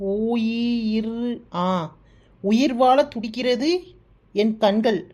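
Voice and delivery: slow, lingering poetic recital; poem recital. Acted. Reading the found love poem aloud to Ambujam, slow and dramatic. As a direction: read each line slowly like a love poem. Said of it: "படிச்சு காட்டுறேன்".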